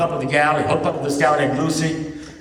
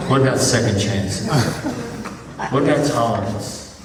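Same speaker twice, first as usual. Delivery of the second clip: mock earnest protest; 4 semitones lower than usual. Lovestruck friend objecting.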